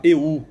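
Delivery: mock a singer leaning on "eu" at the wrong moment; imitating "eu" sung with misplaced stress; wrongly stressed eu. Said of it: "Já vi caso da pessoa falar".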